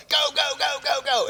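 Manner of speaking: retold gunny's battle yell. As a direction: shout them forward. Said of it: "the gunny's yelling".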